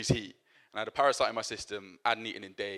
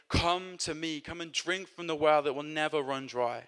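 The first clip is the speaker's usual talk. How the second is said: higher, raised calling voice; crying out; 4 semitones higher than usual. Retold or imitated. Preacher voicing Jesus inviting the nation, raised call. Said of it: "He stands and cries out".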